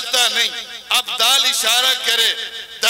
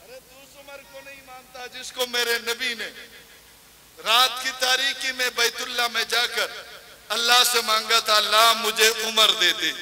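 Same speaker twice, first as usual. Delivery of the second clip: sudden hush; 6 dB quieter, faster than usual. Acted. Sudden quiet after shout.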